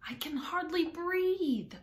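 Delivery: high, slow squeezed complaint; complaining Dormouse. A narrator's reading. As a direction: whine it high and drawn out.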